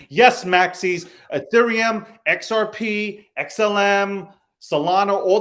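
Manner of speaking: a sharp shout across the room; calling out. Real, not acted. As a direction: call the Maxis out by name. Calls out Bitcoin maximalists.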